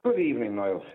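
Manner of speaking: roomy bathroom echo; talking from a tiled bathroom. Real, not acted. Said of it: "You sound like you're in the bathroom".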